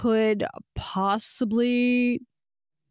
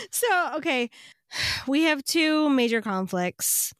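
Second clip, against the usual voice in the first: after laughing hard; 4 semitones higher than usual. Real, not acted. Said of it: "Let me compose myself".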